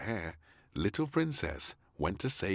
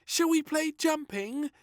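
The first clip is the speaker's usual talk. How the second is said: little princess voice; 6 dB louder than usual. A narrator's reading. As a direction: ask sweetly like a little girl.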